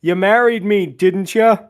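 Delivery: mock yell. Shop owner arguing with the other owner, mock yelling. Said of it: "one yells to the other".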